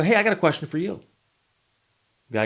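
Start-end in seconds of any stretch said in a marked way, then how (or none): 0.0-1.0 mocking echo.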